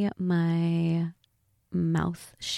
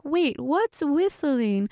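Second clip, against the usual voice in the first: slow, slightly mock British cartoon voice; fake accent; 5 semitones higher, slower than usual. Voicing Peppa's friend on the phone, light fake British accent. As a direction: ask slowly in a lightly faked British accent. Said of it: "I'm bad at the accent".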